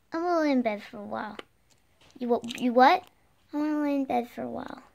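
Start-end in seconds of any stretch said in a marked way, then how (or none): 0.1-1.4 put-on baby voice. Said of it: "Don't use a baby voice". 3.5-4.8 put-on quick, soft little baby voice. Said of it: "Don't use a baby voice".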